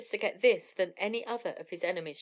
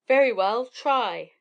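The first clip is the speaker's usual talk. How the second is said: shouted; 2 semitones higher, 9 dB louder, slower than usual. A narrator's reading. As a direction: dare the giant to catch you. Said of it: "shouted Jack".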